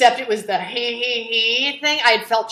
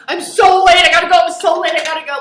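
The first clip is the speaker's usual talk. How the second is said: high, loud, frantic excuses; flustered rush; 8 semitones higher, 10 dB louder, faster than usual. Retold or imitated. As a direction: hurry out in a panic, half in tears. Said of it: "I'm like".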